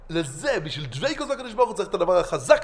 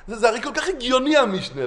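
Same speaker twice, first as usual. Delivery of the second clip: pained disbelief; 3 semitones higher than usual. Retold or imitated. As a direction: protest it as if it personally hurts. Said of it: "זה כאב לנו".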